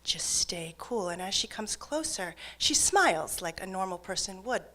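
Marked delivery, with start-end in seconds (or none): 0.0-1.1 hushed, telling herself to stay cool; soft, tense inner voice; half-whispered self-calming; inner pep talk. Retold or imitated. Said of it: "I'm thinking".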